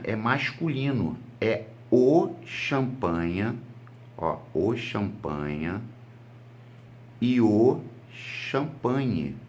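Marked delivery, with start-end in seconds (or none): 1.4-9.4 slow, leaning hard on "o" before champanha; teacher stressing "o champanha". Shown as a demonstration. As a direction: hit the article "o" each time, slowly. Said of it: "Os dois são masculinos".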